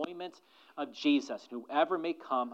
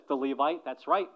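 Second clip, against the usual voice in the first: mock proud answer; 4 dB louder than usual. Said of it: "he would say".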